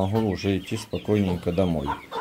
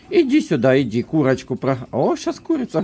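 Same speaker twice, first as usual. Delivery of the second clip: squeaky coaxing; 4 semitones higher than usual. Real, not acted. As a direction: call the dog up high. Coaxing dog.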